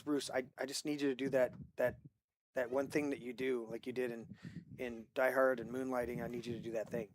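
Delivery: lightly voiced nervous director, quiet and careful; timid plea. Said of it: "like, intimidated".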